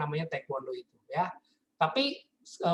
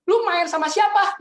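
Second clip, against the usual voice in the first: much higher, louder, slow alarmed question; alarmed mom demanding; 12 semitones higher, 8 dB louder than usual. Retold or imitated. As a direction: demand an answer like a panicked mom. (mama panik bertanya, tinggi, keras, pelan)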